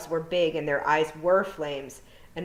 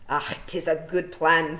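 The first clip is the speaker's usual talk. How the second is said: slow dim feegle; 4 dB louder than usual. Acted. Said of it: "says Daft Willie".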